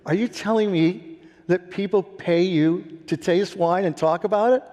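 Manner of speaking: a father who can't believe it; incredulous dad. Retold or imitated. Blue-collar dad, incredulous.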